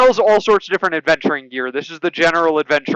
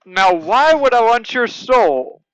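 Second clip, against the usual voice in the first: put-on cowboy accent; 5 semitones higher, slower than usual. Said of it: "He sounds like a cowboy".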